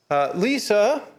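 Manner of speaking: calling a name. Acted. Husband calls wife out of a group, calling her name. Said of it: "I called her name out".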